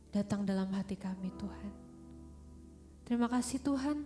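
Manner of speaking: ordinary talk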